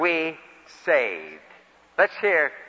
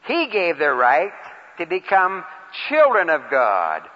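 reading each phrase slowly and deliberately; slow scripture reading; slower than usual. Shown as a demonstration. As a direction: savor every word of the verse. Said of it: "I'll read it".

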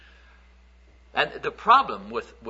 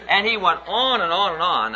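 amused exasperation; 7 semitones higher, 5 dB louder than usual. Retold or imitated. Mocking the boy's endless harangue.

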